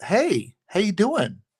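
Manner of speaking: light, breezy tenor with pitch very high. Imitating Bruce Wayne on the phone to Alfred, in Bruce Wayne's light, higher tenor. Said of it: "lighthearted, higher tenor voice".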